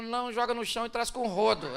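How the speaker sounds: quick biting sarcasm; mock him with a silly order; wife sarcastically answering husband; sarcastic reply. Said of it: "Não seja irônico".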